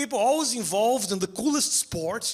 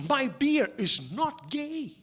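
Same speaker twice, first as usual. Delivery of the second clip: whiny beer drinker; 3 semitones higher, much slower than usual. Retold or imitated. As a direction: sulk like a man defending his beer. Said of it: "People are like".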